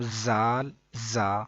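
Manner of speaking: زال and زا both begun with the same buzzing z; wrongly merged z. Shown as a demonstration. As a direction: make زال start just like زا, with a sharp z. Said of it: "ایسے نہیں پڑھنا". (زال اور زا دونوں ایک جیسی ز سے)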